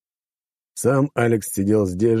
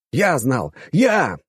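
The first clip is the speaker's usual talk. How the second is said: yelled; 6 semitones higher, much slower than usual. A narrator's reading. Hero yelling at his friend about the cat. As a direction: bellow it at your friend. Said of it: "заорал я".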